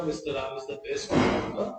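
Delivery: half-speed, gently stressed the; slow corrected sentence. Shown as a demonstration. Teacher reading the corrected example to the class, slow. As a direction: read it back slowly with the article. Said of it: "तो आपको द लगाना पड़ेगा".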